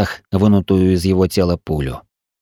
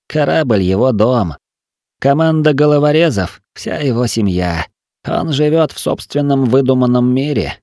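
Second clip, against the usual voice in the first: a hint of a delirious young man, higher; rambling feverishly; feverish wounded man; 4 semitones higher than usual. Wounded Til talks in fever.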